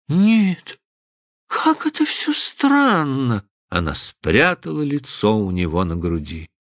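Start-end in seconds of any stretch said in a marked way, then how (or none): 0.1-3.4 overwhelmed wonder. A narrator's reading. Overwhelmed girl.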